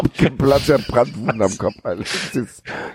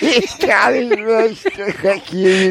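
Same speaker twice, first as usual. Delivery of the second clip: breathless with laughter; 9 semitones higher, much slower than usual. Real, not acted. Wheezing from laughter.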